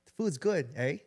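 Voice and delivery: lightly put-on Canadian, lifting at the end; Canadian accent. Co-host taking a turn at Canadian accent. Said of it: "what is your best Canadian accent?".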